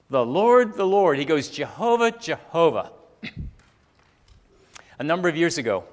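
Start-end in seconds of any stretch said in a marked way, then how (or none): 0.1-1.2 loud, raised preacher's proclamation; proclaiming. Retold or imitated. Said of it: "proclaimed his name". 1.5-2.9 loud, lifted proclamation of a name; high and strong, like a herald; proclaiming. Retold or imitated. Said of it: "proclaimed his name".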